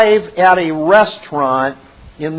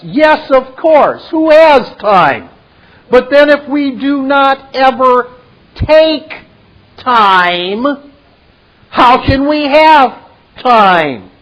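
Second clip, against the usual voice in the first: higher, much louder, slow mocking lecture; Merovian voice; 6 semitones higher, 6 dB louder than usual. Merovian mocks Neo's claim of no time, loud and lofty. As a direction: scoff at the idea of having no time, booming. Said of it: "Look at what Merovian says".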